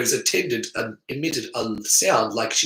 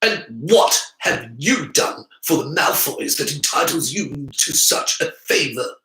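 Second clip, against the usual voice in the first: lightly haughty glare; 3 semitones higher than usual. Acted. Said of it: "The white-haired boy glared".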